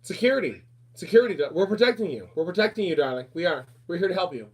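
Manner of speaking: a hint of a patronizing government voice; mock reassuring official. Mimics government reassuring the public.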